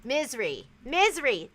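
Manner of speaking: "Misery" squeezed toward MIZ-ree; trying out misery. Shown as a demonstration. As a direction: say "Misery" with stress on the first syllable. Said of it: "That sounds good, too".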